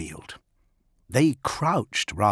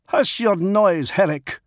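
Fafnir silencing his packmate; 10 semitones higher, 5 dB louder than usual. Acted. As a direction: shut him down with authority.

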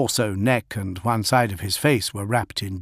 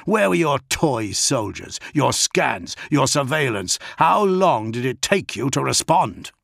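berating; 4 semitones higher than usual. Acted. Augustin berating the commander.

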